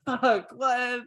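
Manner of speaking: high-pitched mock disbelief; shocked reaction. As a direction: blurt it in a high voice, aghast. Voices the man's shocked reaction.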